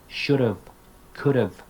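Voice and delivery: weak "of" sound ending should've, could've; reduced modal contractions. Shown as a demonstration. Teacher showing perfect modals, reduced pronunciation. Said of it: "with the perfect modals".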